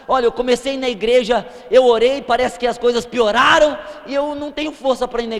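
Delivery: loud, rising into a shout on "pioraram"; imitating a frustrated churchgoer crying out in despair; exasperated outburst. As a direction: burst out as the worn-out believer who prayed and got worse. Quoting a discouraged believer.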